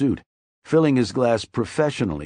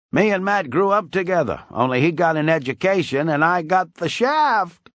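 mild cackling Weasel; 8 semitones higher, 3 dB louder than usual. A narrator's reading. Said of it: "Weasel cackled".

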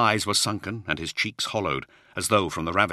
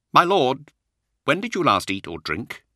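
concerned; 8 semitones higher, 5 dB louder than usual. Acted. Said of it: "studied Luther with concern".

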